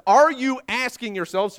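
slow, loud preacher's reading; emphatic scripture reading. Acted. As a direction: project the question to the whole congregation. Emphatic reading of Jesus' words.

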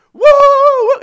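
sudden high whooping cheer; retold victory whoop. Pastor reliving his theater cheer, high whoop. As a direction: whoop like the crowd after the big fight. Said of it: "I started screaming".

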